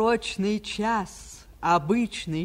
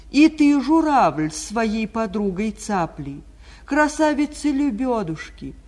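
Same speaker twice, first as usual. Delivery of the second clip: зов к птицам; 5 semitones higher, 4 dB louder than usual. Acted. Spring calls out to the birds.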